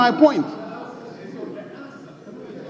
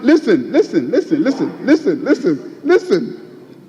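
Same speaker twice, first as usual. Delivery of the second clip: laughing listen. Real, not acted. Calls house to order, laughing.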